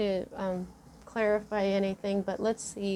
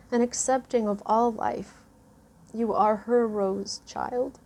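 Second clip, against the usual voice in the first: moved oracle card reading. Real, not acted. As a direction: read the message gently, holding back tears. Reads the greater message.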